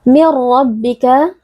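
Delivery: "Mir rabbika" with n merged into a doubled r, no hum; no dengung. Shown as a demonstration. Teacher showing idgham, hum-free doubled r in "Mir rabbika". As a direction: go straight into the rolled r of "Mir rabbika", slowly. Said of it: "dibaca tanpa dengung".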